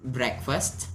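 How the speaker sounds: Breakfast said slowly, every sound clear; careful pronunciation. Shown as a demonstration. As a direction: spell out Breakfast for the class, rising at the end. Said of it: "cara bacanya break".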